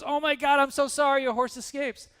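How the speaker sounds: high-pitched, breathless-style neighbor act; acted alarmed sympathy. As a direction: play the neighbor rushing in, dismayed. Neighbor runs over with bad news.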